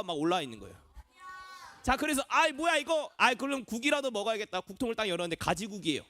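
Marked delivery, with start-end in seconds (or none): 2.3-4.6 put-on mildly put-out child, starting higher; grumble, then settle for second best. Child finding eggplant on the rice, mild grumbling.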